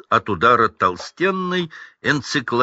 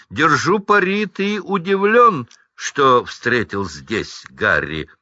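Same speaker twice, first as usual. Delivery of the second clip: sneer; 5 semitones higher than usual. Acted. Драко насмехается над Роном.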